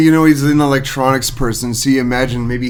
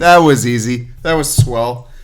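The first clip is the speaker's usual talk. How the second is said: lightly voiced recorded button catchphrase, louder at first; Staples Easy Button; 5 dB louder than usual. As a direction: playfully mimic a talking desk button. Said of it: "the Staples easy button".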